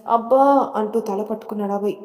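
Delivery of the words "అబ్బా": a put-on ow, clutching his head; mock groan, louder and higher; hammed-up pained groan to win sympathy; faked groan of pain. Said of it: "అంటూ కావాలని".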